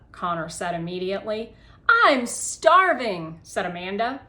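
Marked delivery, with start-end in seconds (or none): 2.0-3.4 put-on eager kid.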